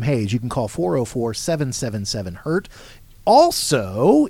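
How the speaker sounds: lively radio host promo read; radio announcer voice. Acted. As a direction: sell it like a radio show host. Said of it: "I like that radio announcer voice".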